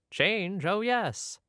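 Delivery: high, eager reply; eager Wallace. Retold or imitated. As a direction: gush with delight. Wallace voiced in retold scene.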